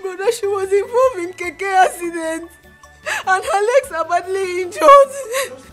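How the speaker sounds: tearful sister describing the injuries; crying. Acted.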